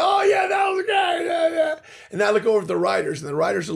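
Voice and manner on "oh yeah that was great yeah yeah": high, loud, gushing praise; delighted crew. Retold or imitated. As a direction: gush over the joke like an excited crew. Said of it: "everybody's like".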